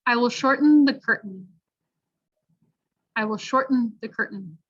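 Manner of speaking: "shorten" and "curtain" with throat-stopped T; careful teaching read; glottal T sentence. Shown as a demonstration. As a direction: model sentence with swallowed T. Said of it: "practice in the sentences".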